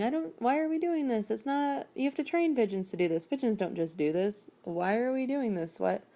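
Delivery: starts high, settles into a grumble; retold reluctant complaint; complaining. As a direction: grumble along in mock protest.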